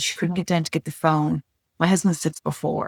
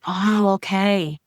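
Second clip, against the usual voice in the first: put-on child's voice; 3 semitones higher, much slower than usual. Daughter's relieved reply, retold.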